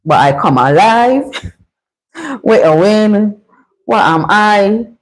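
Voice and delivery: slow riddle in a Bajan accent. Shown as a demonstration. Host reads the riddle to Livingstone in Bajan accent. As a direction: put on a Bajan accent, drawn out. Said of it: "let me see if I could type it in Bajan".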